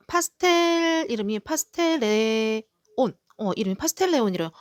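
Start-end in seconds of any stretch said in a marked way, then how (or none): 0.1-3.1 slow, drawn-out syllables as if deciphering a name; halting label reading. Real, not acted. Seller reading a new plant's name tag, haltingly. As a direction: sound out an unfamiliar name from the tag. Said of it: "제가 이름표를 보면서 읽는다고".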